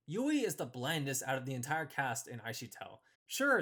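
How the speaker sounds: normal talking voice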